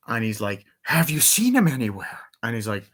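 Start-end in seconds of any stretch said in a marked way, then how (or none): 0.8-2.2 high-pitched mock questioning; lightly acted movie villain asking, pitched up; imitated villain's question. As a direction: put on a higher, swooping question. Acting out Robotnik's question.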